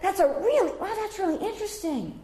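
high, gushing feigned wonder; mock enthusiasm. Shown as a demonstration. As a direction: pretend to be thrilled, then ask. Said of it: "or you can even say it".

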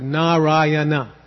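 Narayana said slowly in four syllables; four-syllable pronunciation. Shown as a demonstration. Teacher giving students the name of the Lord, four-syllable Narayana. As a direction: give Narayana all four syllables, final -na sounded. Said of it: "the four-syllable name of the Lord".

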